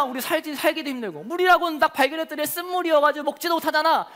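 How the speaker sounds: lightly acted whiny grumble; grumbling complaint. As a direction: grumble at Moses, aggrieved. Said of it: "모세에게 원망하기 시작합니다".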